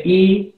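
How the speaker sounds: "I" pronounced as a pure ee vowel; vocal coreana I. Shown as a demonstration. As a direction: say "I" as one clear ee. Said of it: "se pronuncia también I". (pronunciar "I" como vocal pura)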